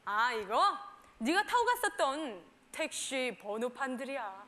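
put-on low, slow, soft boyfriend voice; imitated boyfriend. Boyfriend reassuring his girlfriend, low slow voice. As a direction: play him explaining, low and unhurried. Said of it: "이랬더니".

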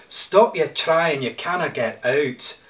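lightly voiced Scottish drunk in a grave; Scottish accent. Ian calling to the stranger in the grave, mild Scottish accent. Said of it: "Ian said in his Scottish accent".

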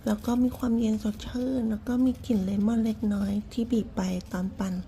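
ordinary talk

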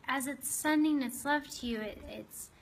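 unhurried meditation guide, long pauses between phrases; guided meditation. Acted. Host guiding listeners to open their hearts to a lizard, guided meditation. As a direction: lead them gently inward, leaving space after each phrase.

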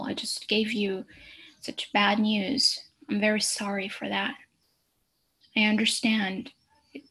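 doctor gently comforting a patient after a cancer diagnosis; empathic doctor voice. Shown as a demonstration. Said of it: "so this is how you show empathy".

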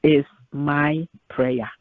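earnest spoken prayer to the Lord; measured pulpit prayer. Acted. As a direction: pray it, steady and sincere. Pastor leads closing prayer.

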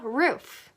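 "roof" ending on a clear F; "roof" with a fully sounded final F; audible final F. Shown as a demonstration. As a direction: let the F of "roof" hiss out at the end. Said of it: "끝에는 F 소리 내주세요".

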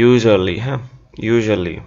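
English-style "usually", z softened to zh; corrected English pronunciation. Shown as a demonstration. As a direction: repeat "usually" as a model, zh in the middle. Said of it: "উচ্চারণটা কীভাবে হওয়া উচিত ছিল?".

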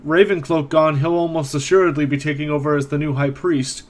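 put-on worried old caretaker reporting news; a hint of a frowning old man; elderly man, frowning.

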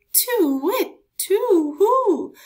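high, loud frightened hoot; owl hoot. Acted. Scared owl hooting as it flees.

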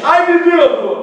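high, slow drawn-out Ai, pedido!; hammed-up crooner wail. Shown as a demonstration. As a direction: stretch out the Ai like the crooner. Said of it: "Bota um aí na frente".

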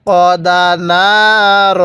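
slow, drawn-out tajweed chanting; teacher reciting slowly for students to copy; Quran recitation. Shown as a demonstration. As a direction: recite each syllable long and even. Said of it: "কিভাবে পড়ব?".

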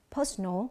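"Personal" with the weight on PER; stress on first syllable. Shown as a demonstration. Teacher showing students the stress pattern, "Personal" stressed on PER. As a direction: lean on the opening syllable of "Personal". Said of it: "âm thứ nhất".

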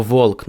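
"волк" з твердим "в" і вимовленим "л"; українська вимова. Shown as a demonstration. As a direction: read walk as "volk", l sounded. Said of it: "Ми би прочитали ці два слова як". ("волк" по-українськи, з "в" і "л")

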